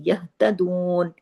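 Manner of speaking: यहतदून with the हा breathed from the chest, not the throat; slow recitation. Shown as a demonstration. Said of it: "ये गले से नहीं पढ़ा जाता".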